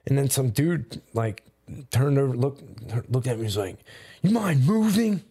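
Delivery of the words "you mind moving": retold stranger's complaint. Retold annoyed stranger at game.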